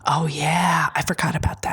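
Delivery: sheepish whisper. Real, not acted. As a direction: whisper the realisation. Whispered aside.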